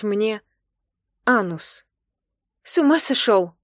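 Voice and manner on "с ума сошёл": sharp, higher, louder protest; hissing protest. Acted. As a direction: scold him in shocked alarm. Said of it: "зашипела я".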